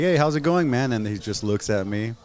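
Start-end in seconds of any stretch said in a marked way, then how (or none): 0.0-0.9 mock cheery greeting. Greeting the rich dad, acted.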